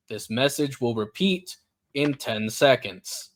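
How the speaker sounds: lightly voiced robot PA, measured and segmented; robotic announcement. PA system warning plant employees of a shooter, lightly robotic voice. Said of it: "and a robotic voice".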